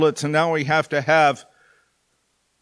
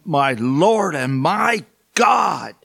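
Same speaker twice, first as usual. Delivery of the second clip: awed exclamation; much slower than usual. Acted. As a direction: proclaim it slowly, overwhelmed. Thomas's awed confession in the reading.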